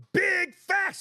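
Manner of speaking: big, high shouted "facts"; sudden mock hype yell; hyped shout. Reading a hyped fan comment aloud.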